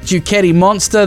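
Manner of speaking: ordinary delivery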